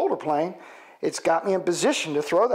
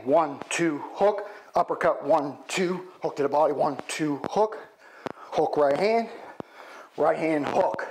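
calling punches while hitting the bag; name each punch as it lands; slower than usual. Shown as a demonstration. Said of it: "So we do it again".

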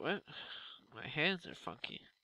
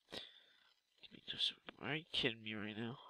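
disbelieving whisper; 3 semitones lower, 7 dB quieter than usual. Real, not acted. Muttering in disbelief.

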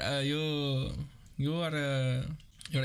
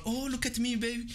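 mock seductive; 6 semitones higher than usual. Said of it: "sexing this one".

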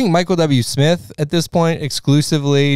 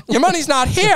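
put-on very high old film banker; mock-dramatic vintage screen voice; old-time movie talk. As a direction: explain it like a flustered movie banker. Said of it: "why are we talking like that?".

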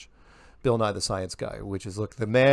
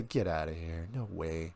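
dismissive; 6 semitones lower, 10 dB quieter than usual. Retold or imitated. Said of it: "I would say".

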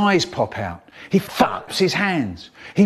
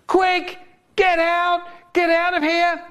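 very high-pitched mock teacher voice; stupid teacher; 13 semitones higher than usual. Pupil mimicking teacher out the front, high caricature voice. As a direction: squeal the orders like a panicked caricature teacher. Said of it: "She used to stand out the front going".

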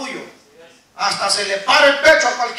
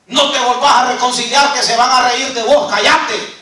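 reprensión del diablo. Acted. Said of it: "la reprensión que escucha usted de parte del diablo".

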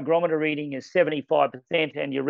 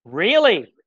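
loud, high swooping question; surprised; 3 semitones higher, 6 dB louder than usual. Real, not acted. Colleague learns of a new meter feature, surprised. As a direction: react in real astonishment.

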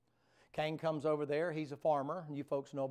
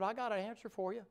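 the Lord answering; 8 semitones higher than usual. Acted. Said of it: "He said".

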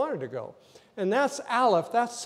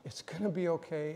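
whispered comfort; 8 dB quieter than usual. Retold or imitated. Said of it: "he whispers in her ear".

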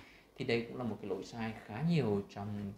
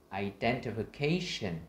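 "Identification" measured, with a lifted "ca"; teacher's slow model of "Identification", stresses marked; clear word stress; slower than usual. Shown as a demonstration. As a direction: say "Identification" with musical rise and fall on the stresses. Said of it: "mình sẽ đọc rõ ràng hơn".

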